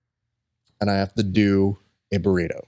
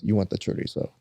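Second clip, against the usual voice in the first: hushed tip; 2 semitones lower, 7 dB quieter than usual. Retold or imitated. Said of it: "He goes".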